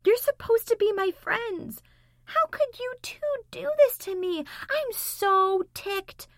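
playful fake anger; mock outrage. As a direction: pretend to be hurt and furious.

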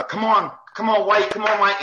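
high, loud cheering urge; little cheerleader. Retold or imitated. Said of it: "like a little cheerleader".

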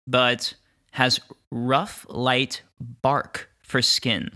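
deliberate descriptive storytelling; game master narration. Acted. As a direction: describe the creature unhurriedly, pausing on details.

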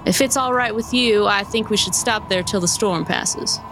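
lightly voiced folksy driver; a hint of a cowboy coach driver; stagecoach driver.

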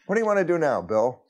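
high, loud self-question; asking himself. Pretend. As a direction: quiz yourself like a buddy. Talking to himself as two.

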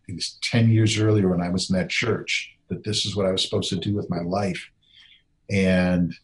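praying to God alone, lightly voiced and hushed; retold prayer. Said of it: "I kneeled down and I prayed".

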